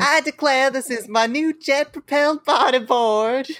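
a hint of a Southern belle accent. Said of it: "That's one bonus to the accent".

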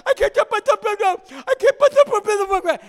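very high, loud, very slow, garbled howl; drawn-out swollen-tongue wail. Retold or imitated. Boy on the steps after the punch, howling slurred words. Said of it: "just going".

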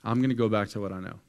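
Peter throwing in the towel; defeated Peter. Retold or imitated. Preacher voicing Peter quitting, loud and beaten. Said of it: "He's like".

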